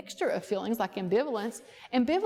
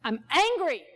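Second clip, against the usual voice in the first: "I'm angry" said louder and higher, falling hard on "angry"; demo anger; 4 semitones higher, 4 dB louder, slower than usual. Shown as a demonstration. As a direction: show him the anger, loud and firm on "angry". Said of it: "And I want you to say".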